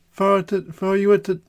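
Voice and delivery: a lightly put-on Italian salesman; mock Italian barber; Italian accent.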